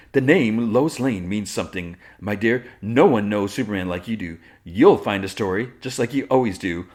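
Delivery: lightly hammed-up grand flattery; showy reporter. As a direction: play a showy colleague laying it on. Voices Cat gushing at Lois.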